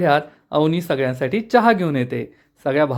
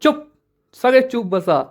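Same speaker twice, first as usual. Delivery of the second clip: narrated shout, moderately raised; angry shout; 6 semitones higher than usual. A narrator's reading. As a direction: yell at the crowding brothers. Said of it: "Avni खूप चिडते आणि जोरात ओरडते".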